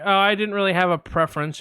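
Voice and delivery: receptionist. Retold or imitated. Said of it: "I'm gonna play both parts".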